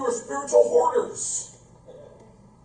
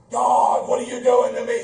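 mock angry shout; 4 dB louder than usual. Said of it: "cursing the wrong person".

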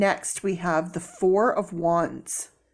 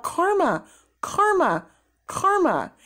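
excited; 11 semitones higher, slower than usual. Real, not acted. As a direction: exclaim it twice in triumph. Card confirms her prediction.

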